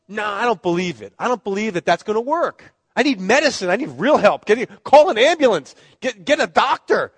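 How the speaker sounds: refusing, rising to a loud demand for a doctor; stubborn son. Retold or imitated. Bitten son refusing to look.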